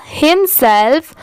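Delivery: हिमसेल्फ built from "him" and "self"; teaching pronunciation. Shown as a demonstration. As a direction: join हिम and सेल्फ into हिमसेल्फ. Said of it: "दोनों मिला देंगे".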